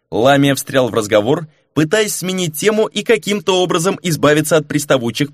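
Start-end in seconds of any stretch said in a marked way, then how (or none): none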